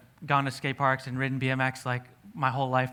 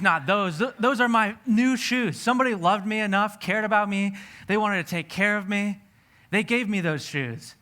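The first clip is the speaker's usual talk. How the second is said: anguished pleading; 5 semitones higher than usual. Retold or imitated. Preacher pleading with the Lord not to take his new shoes, anguished. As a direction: beg like someone asked to give up their treasure. Resisting God's call to give.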